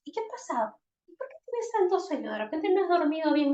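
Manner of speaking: put-on fast, high eager kid voice; chatty child. Shown as a demonstration. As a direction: rattle on like an excited child. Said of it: "De repente le sale con". (niño hablador, rápido y agudo)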